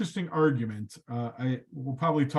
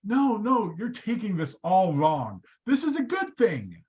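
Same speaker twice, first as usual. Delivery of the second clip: Moses protesting; 6 semitones higher than usual. Retold or imitated. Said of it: "Moses turns to God and says".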